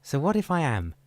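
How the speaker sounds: loud, high, sharp challenge; shouted retort. Acted. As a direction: fire it back at him. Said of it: "Chippewa shouted".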